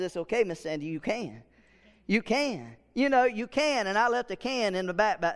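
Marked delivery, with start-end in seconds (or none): 0.0-3.9 reassuring. Retold or imitated. Pastor reassuring scared teacher.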